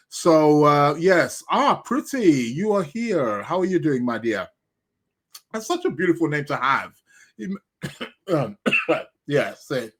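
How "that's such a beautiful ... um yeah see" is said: talking while eating; words round a bite of food; mouth full. Real, not acted. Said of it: "that's me eating and".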